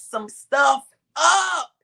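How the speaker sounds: very slow, loud cry breaking on the words; crying shout. Real, not acted. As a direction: let it tear out of you, slow and loud. Preacher's emotional climax.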